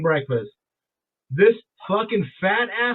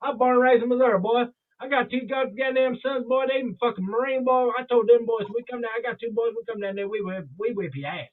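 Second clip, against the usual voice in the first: put-on deep Southern accent; 4 semitones higher than usual. Stranger boasting about birthplace and sons, imitated deep Southern accent. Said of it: "that deep Southern in Missouri".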